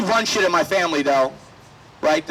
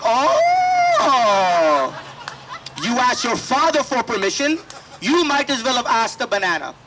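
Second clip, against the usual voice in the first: mock scornful mom; 4 semitones higher, slower than usual. Mom mocking the dad.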